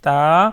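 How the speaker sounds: تا with a light, thin t; drawn-out تا with an unemphatic t. Shown as a demonstration. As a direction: say تا long with the tongue light, not heavy. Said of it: "طا کی نسبت جو ہے باریک ہے".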